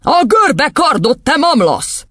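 high, forceful rebuke; tyrant headmistress, irritated. Acted. Headmistress answering the boy's question, irritated yell. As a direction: scold a slow pupil up high.

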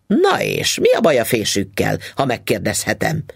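husband snapping at his wife over the combs; snapping angrily. Acted. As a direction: snap back at her, offended. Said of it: "csattant fel Mister Foster dühötten".

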